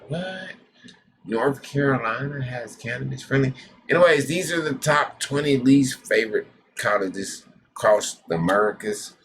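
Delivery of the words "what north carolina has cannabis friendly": high, startled what; surprised what. Real, not acted. Vlogger surprised at a state on the list, high what. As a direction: yelp in disbelief.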